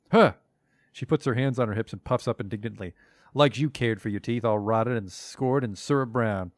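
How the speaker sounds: put-on puffed-up old hag berating the dead; hammed-up huffy hag voice; indignant crone. Marta berates the corpse.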